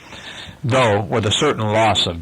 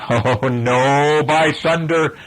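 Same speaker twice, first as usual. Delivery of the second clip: pitched-up pirate refusal; mild protest; 6 semitones higher, slower than usual. A narrator's reading. Starkey refusing Hook's order, mild protest. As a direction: refuse with a raised voice.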